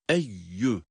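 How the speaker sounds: "eyyü" with a clean doubled y; no nasal sound. Shown as a demonstration. Teacher showing the correct reading, "eyyü" without nasal sound. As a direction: say "eyyü" on a pure y, nothing through the nose. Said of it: "genizden ses getirmeyeceğiz".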